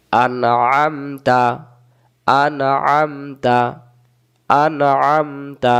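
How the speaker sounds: very slow drawn-out reading. Shown as a demonstration. Teacher stretches the word for students to copy. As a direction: stretch each syllable long. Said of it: "আইন জবর আ ... তা জবর তা".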